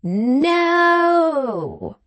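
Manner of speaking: long, high roared refusal; furious drawn-out bellow. A narrator's reading. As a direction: roar it out, stretching the vowel. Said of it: "roared Quilp".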